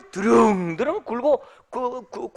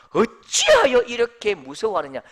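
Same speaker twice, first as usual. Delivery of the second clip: 어찌하여 punched louder, then falling away; stress on 어찌하여; 5 dB louder than usual. Shown as a demonstration. Preacher showing where the stress falls, stress on 어찌하여. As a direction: lean on 어찌하여, let the rest drop. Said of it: "강세가 중요합니다".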